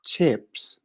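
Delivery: breathy whispered word. Real, not acted. Whispered word tried aloud.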